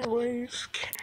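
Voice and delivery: breathy whispered giggle to the cat; amused whisper to the timid cat; laughing whisper. Real, not acted.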